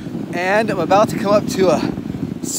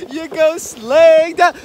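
high, loud thrilled call; sledding downhill; 8 semitones higher, 5 dB louder than usual. Real, not acted. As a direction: ride the rush, calling out.

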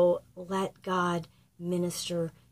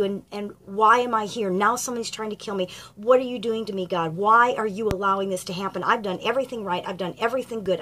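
raised, pleading and louder, at times fast; Elijah's complaint; 3 semitones higher, 5 dB louder than usual. Acted. Elijah protesting to God in the cave, raised and pleading. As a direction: pour out the grievance, insisting you did everything right.

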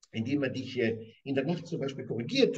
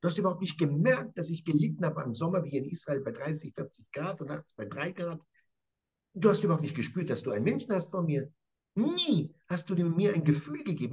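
bitter reproach. Acted. Jakob reproaching Laban.

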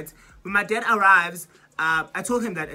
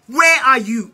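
impatient call; 5 semitones higher, 10 dB louder, slower than usual. Retold or imitated. Calling dad again, impatient.

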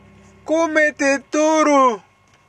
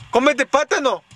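put-on very high baby-talk order; mock scolding; 9 semitones higher than usual. Ordering the girl to eat, mock scolding. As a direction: scold playfully at a high pitch. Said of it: "porque yo la regaño".

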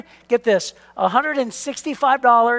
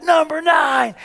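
higher-pitched mock countdown call; imitated crowd shout; 5 semitones higher, much slower than usual. Banquet crowd counting down to the winner, mild imitated shout. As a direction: call out the rank like a chanting room. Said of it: "everybody would shout".

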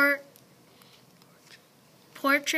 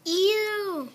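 grossed-out ew; disgusted; 7 semitones higher than usual. Acted. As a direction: recoil in disgust. Mole rats react in disgust.

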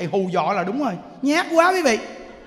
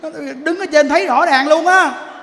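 louder, raised exclamation; loud exclaim; 4 semitones higher, 6 dB louder than usual. Real, not acted. Monk exclaiming at superstitious women, loud. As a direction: cry out in disbelief.

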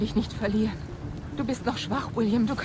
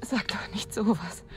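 whispering; 7 semitones lower, 7 dB quieter than usual. Acted. Tender reassurance, unvoiced.

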